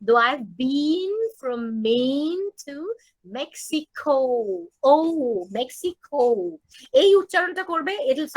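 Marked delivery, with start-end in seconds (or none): 0.1-6.2 very slow, every vowel stretched long; "though I've been from Maine to Mexico" with long held vowels. Shown as a demonstration. Teacher modelling long vowels before the class sings. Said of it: "সব কটা লম্বা উচ্চারণ".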